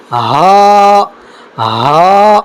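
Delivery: ہا breathed from the start of the throat; airy model of ہا; breathy letter demo. Shown as a demonstration. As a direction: exhale each ہا. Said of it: "وہاں سے ہم کو کیا نکالنا ہے".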